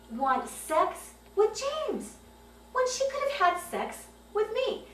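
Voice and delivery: high, loud, slowing, unhinged father's voice; deranged father. Retold or imitated. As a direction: play the father cracking into jealous madness. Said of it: "this was not my dad".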